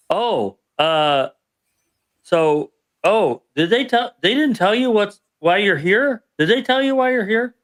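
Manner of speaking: high, flustered, surprised sergeant; flustered surprise. Retold or imitated. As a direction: catch yourself, alarmed she hasn't told him. Sergeant realizes he wasn't told.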